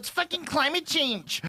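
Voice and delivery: very high-pitched, whiny, complaining voice. Speaker runs through the voices they do: whiny liberal voice. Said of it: "when I talk like this, this is a whiny liberal".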